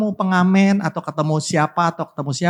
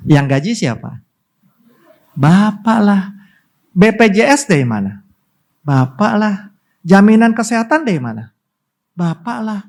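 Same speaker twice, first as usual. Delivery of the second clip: emphatic refrain; 5 semitones higher, 3 dB louder than usual. Real, not acted. Call-and-answer refrain.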